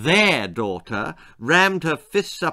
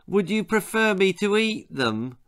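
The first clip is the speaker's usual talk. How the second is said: put-on cheeky girl; 6 semitones higher than usual. Cheeky daughter to parents.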